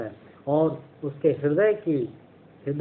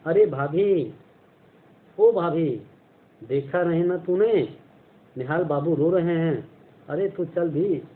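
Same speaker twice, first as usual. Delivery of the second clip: put-on girl calling out; 3 semitones higher than usual. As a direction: call out eagerly like a young girl fetching someone. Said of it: "हल्ला मचा दिया".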